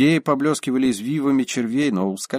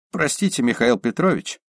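polite; 2 semitones higher than usual. Acted. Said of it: "вежливо сказал Ипполит Григорьевич".

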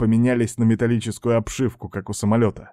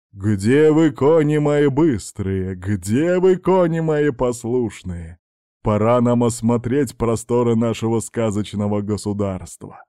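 calling out loud. Acted. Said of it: "громко закричал Дед Мороз".

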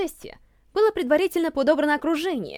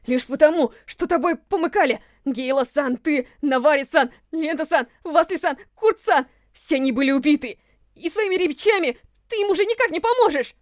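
angry raised voice. Acted. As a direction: shout out the names in rage. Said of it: "Он повысил голос, полный гнева".

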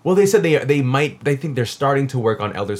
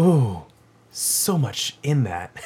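mock awed; 3 dB quieter, much slower than usual. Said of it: "you're like".

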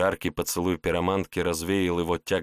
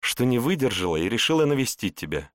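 cartoon princess; 5 semitones higher than usual. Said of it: "прощебетала она на ухо".

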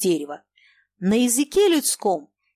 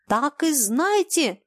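high, slow emphatic cry; shout; 6 semitones higher, slower than usual. A narrator's reading. Landlady warning the lodger, shouted ultimatum. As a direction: lay down the final word. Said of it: "крикнула она".

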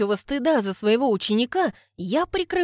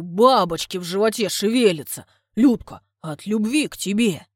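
loud fervent explaining; earnest correction; 5 dB louder than usual. Acted. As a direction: correct himself passionately. Suitor explains.

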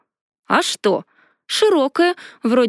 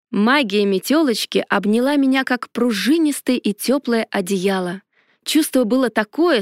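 plain reading voice

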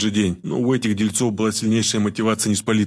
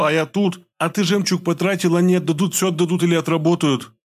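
frightened babbling; 8 semitones higher than usual. A narrator's reading. Terrified wife babbles excuses to her husband, panicked. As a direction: gabble out excuses in terror. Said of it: "сбивчиво быстро затараторила".

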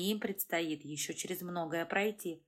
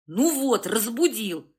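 annoyed woman; 2 semitones higher, 7 dB louder than usual. A narrator's reading. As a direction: grumble at being woken. The wife wakes up, annoyed.

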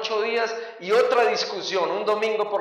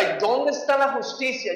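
higher-pitched indignant plea; mock-aggrieved outcry; retold protest; 5 semitones higher than usual. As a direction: cry out for justice, pitched up.

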